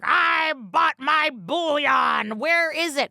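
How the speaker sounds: a fed-up buyer yelling down the phone; angry customer. Retold or imitated. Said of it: "People would be like".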